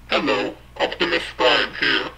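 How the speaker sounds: voice-changer robot hero voice; Optimus Prime robot voice. Pretend. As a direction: speak like a transforming robot leader. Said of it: "my sexy robot voice".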